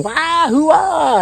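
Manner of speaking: high hooting whoop, far off in pitch; ghost war whoop. Retold or imitated. Ghost throwing hay, hooting a high whoop. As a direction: whoop like a rowdy ghost fan. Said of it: "and he's screaming".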